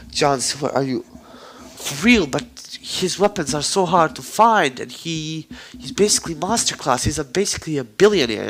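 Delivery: loud, high, starstruck outburst; amazed disbelief. Acted. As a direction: gush in acted astonishment. Stunned at learning Naruto's secret identity.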